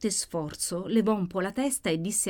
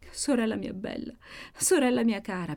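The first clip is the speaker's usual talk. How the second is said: weeping; 4 semitones higher than usual. Acted. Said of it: "piangeva Maddalena".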